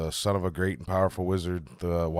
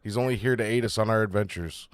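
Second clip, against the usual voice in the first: a touch louder, earnest plea; pleading gnome; 2 semitones higher, 3 dB louder than usual. Acted. Gnome to the captain, a light earnest plea. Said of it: "I would just say".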